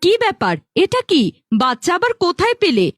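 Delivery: quick, indignant questioning; angry wife. Acted. Wife confronts husband over the baby he brought, annoyed and rapid. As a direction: fire off cross questions at your husband. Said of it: "রাগ করো না গো বউ".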